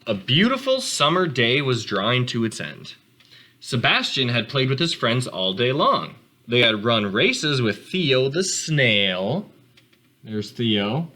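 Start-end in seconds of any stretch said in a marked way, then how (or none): 0.1-9.5 calm read-aloud storytelling voice; gentle storybook narration for kids; story narration. A narrator's reading. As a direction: read it to the class like a picture book. Teacher reads picture book to class.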